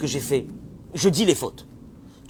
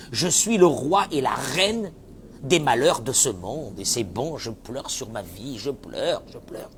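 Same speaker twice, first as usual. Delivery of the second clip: lent, plaintif, imitation moqueuse de quelqu'un qui s'apitoie; traîne les mots comme un martyr ironique; apitoiement moqueur; slower than usual. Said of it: "ils se disent". (lamentation moqueuse et lente qui s'éteint)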